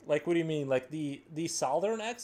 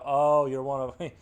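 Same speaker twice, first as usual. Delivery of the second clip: mock condescension; 7 dB louder, slower than usual. Mock judging a Southern speaker.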